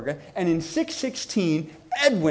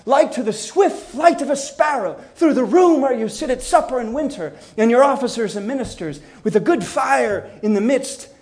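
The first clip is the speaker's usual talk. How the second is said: lightly acted banquet speech, a bit raised; toasting orator; 4 semitones higher, 4 dB louder than usual. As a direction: declaim it as if raising a goblet by the fire. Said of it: "raising a goblet".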